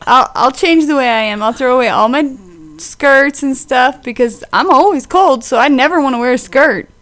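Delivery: passive-aggressive sarcasm; snide mock compliance; sarcastic. Real, not acted. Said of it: "Now you're just being mean".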